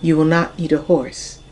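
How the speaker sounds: measured, deliberate poetry reading with lifted peaks; poem reading. Acted. Poet reads a father's wardrobe advice to his ten-year-old son, measured poem reading. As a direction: read it like a father's grand, knowing advice.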